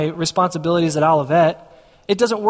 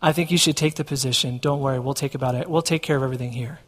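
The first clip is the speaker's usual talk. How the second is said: lower, softer, calm boss voice; imitated reassuring boss; 6 semitones lower, 4 dB quieter than usual. Boss releasing him to take the position, reassuring. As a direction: drop low and quiet to reassure, as the boss. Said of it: "and Brian says".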